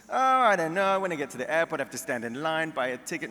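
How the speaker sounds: Jewish mother. Retold or imitated. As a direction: whine it like a reluctant Jewish mother. Mother voiced in a joke.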